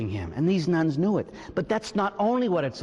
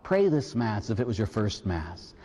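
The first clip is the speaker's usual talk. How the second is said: lower, measured plea stressing pray; solemn reworded reading; 7 semitones lower than usual. Shown as a demonstration. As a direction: turn the sign into a charge to the people. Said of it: "O people of God".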